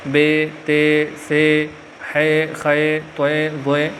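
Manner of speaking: "بے، تے" named the Urdu way with an -e ending, slowly; Urdu pronunciation. Shown as a demonstration. Teacher repeating the Urdu examples to avoid, slow. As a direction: read "سے، ہے، خے" as Urdu letter names. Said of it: "یہ ساری اردو کی مثالیں ہیں".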